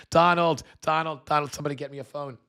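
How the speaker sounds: high, eager call for Donald; a kid calling out to tell his dad; mock Vance calling out to the president.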